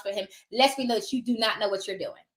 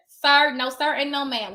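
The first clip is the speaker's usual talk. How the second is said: firm sassy no; 2 semitones higher than usual. Real, not acted. Refusing the realtor.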